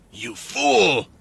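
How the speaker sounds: roar. A narrator's reading. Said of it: "Rick's roar".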